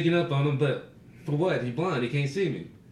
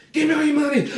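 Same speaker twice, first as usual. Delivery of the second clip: high, loud stick-up holler; playful holdup shout, much higher and louder; mock robber yell; 14 semitones higher, 7 dB louder, faster than usual. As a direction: bark it like a fake mugger. Prank robbery shout retold.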